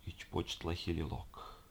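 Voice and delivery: very slow, soft hissing creature; demon voice. Acted. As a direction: drag it out slowly, eerie and soft. Demon speaks Nahuatl.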